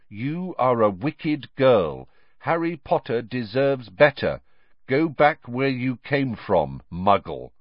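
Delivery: slow, deliberate, spiteful reading; a hint of a sneering anonymous writer; sinister letter read. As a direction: spell out each cruel word slowly. Poison-pen letter read aloud.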